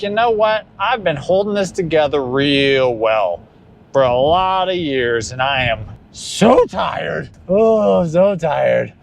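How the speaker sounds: put-on weary lines in a light Mexican accent; a touch of a Mexican accent, exhausted; Hispanic accent. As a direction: sigh it out in a mild Hispanic accent. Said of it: "I went into, like, a Hispanic accent there".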